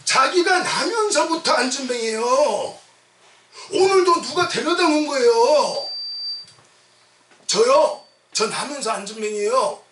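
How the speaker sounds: sermon at full force; impassioned preaching. Real, not acted. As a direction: preach it out to the congregation.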